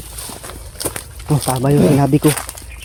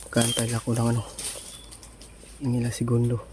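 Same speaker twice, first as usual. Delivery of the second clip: whispering while hiding; 2 semitones lower, 13 dB quieter than usual. Real, not acted. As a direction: speak softly so nobody hears. Huwag kang gagalaw para hindi nila tayo makita.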